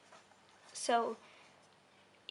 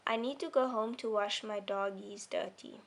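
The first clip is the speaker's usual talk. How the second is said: rushed, no pause. Shown as a demonstration. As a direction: run "dog, he's dirty" together without stopping. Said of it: "I'm reading very fast and it doesn't sound right".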